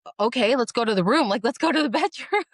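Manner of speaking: a flustered husband caught off guard, laughing; mock panicked husband, chuckling through it; husband's flustered reply. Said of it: "he's looking at me like".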